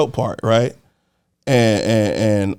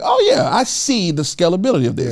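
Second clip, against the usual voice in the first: eager, higher hustle voice; hyped-up; 4 semitones higher than usual. Retold or imitated. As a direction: overconfident entrepreneur, rushing. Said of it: "I'm like".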